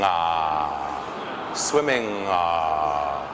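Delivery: "swimming" with a long humming ng into ah; nasal ng drill. Shown as a demonstration. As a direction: hum the ng of "swimming", then open to ah. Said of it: "by doing the N G sound".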